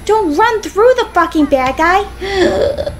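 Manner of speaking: high, slow, stretched-out protest; drawn-out high-pitched frustration; exasperated scolding. Real, not acted. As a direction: plead with your character, word by word. Scolding own game character.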